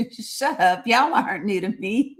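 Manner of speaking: laughing teasing. Real, not acted. Teasing chat.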